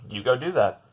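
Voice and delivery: mock-encouraging, sarcastic send-off. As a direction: say it with pointed sarcasm. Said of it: "I said it so sarcastically".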